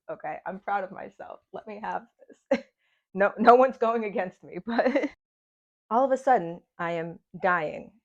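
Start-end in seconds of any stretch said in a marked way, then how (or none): 3.2-7.9 rough, hoarse throat. Real, not acted. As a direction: talk through a hoarse throat. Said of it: "starting to sound like a demon".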